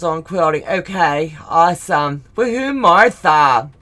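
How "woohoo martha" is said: louder, slow whoop of joy; cheer. Real, not acted. Host cheering Martha in the live chat, slow joyful whoop. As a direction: stretch the cheer out for her.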